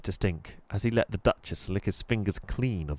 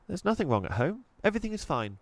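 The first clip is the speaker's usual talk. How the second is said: put-on adamant girl; 10 semitones higher, faster than usual. A narrator's reading. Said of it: "said Chloe adamantly".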